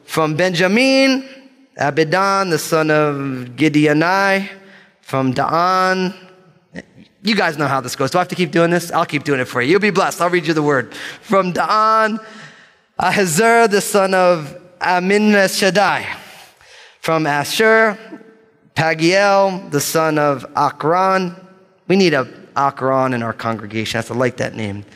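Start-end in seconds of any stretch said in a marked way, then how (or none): 0.1-6.2 slow, deliberate roll call of names; bold reading. Real, not acted. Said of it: "gonna read these names with boldness". 11.2-21.4 drawn-out, confident name list; bold reading. Real, not acted. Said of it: "gonna read these names with boldness".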